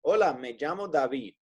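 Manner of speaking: Hola, me llamo David in clear Spanish, ll as a y sound; model greeting. Shown as a demonstration. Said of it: "I would say".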